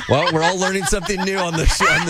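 talking through laughter; laughing. Real, not acted. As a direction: try to sum up while cracking up. Amused by co-host's milkshake confusion.

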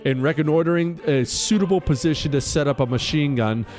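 formal citation read over music; crisp military citation. Acted. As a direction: read it like an official military commendation. Reads the medal citation aloud.

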